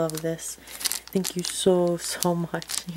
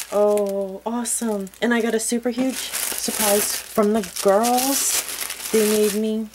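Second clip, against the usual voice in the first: higher and louder, delighted; excited surprise; 3 semitones higher, 4 dB louder, slower than usual. Real, not acted. Unwrapping a surprise gift.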